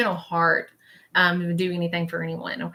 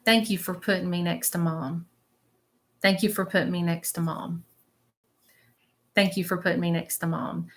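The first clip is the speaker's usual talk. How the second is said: soft, muffled spirit message; 5 dB quieter than usual. Retold or imitated. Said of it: "It's really, really muffled".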